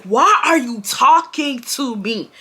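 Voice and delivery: mildly irate challenge, word by word; indignant confrontation. Retold or imitated. Girl confronting the boy who commented, indignant.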